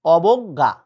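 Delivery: অবজ্ঞা with a rounded middle o and doubled g; demonstrated pronunciation. Shown as a demonstration. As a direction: say অবজ্ঞা loudly as aw-bog-ga. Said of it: "অবজ্ঞা শব্দের উচ্চারণ, এই যে দেখো".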